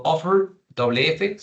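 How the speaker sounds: slow, lifted "offer" with a single F; model "offer". Shown as a demonstration. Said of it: "suena simplemente una F".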